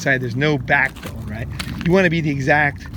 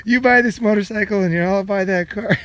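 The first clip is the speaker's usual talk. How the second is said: coaxing sweet talk; 4 semitones higher than usual. Retold or imitated. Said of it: "I'd be like".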